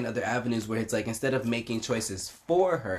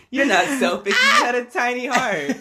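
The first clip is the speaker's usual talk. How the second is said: high, loud, hammed-up wail; mock shout; 13 semitones higher, 10 dB louder than usual. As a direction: yell it like a mock lament. Mock diagnosis, Scrooge heart joke.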